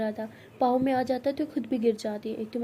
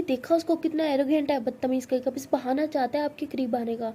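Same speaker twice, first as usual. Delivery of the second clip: angry rant; 2 semitones higher, 4 dB louder than usual. Acted. Tara to Siya about the arrogant boy, louder angry rant. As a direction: vent the jealousy hard.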